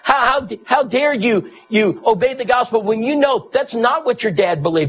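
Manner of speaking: angry mother. Retold or imitated. Mother rebuking her daughter for being baptized, mock angry scolding. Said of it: "She was angry".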